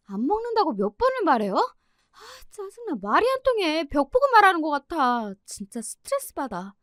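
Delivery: high, exasperated venting; fuming grumble. Retold or imitated. 방에서 혼자 투덜대는 짜증. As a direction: blow off steam to herself. Daughter fumes alone in room.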